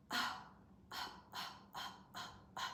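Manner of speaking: short coughlike puffs of air; sharp breath bursts. Shown as a demonstration. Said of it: "기침하듯이 숨을 팍 내뱉어보세요".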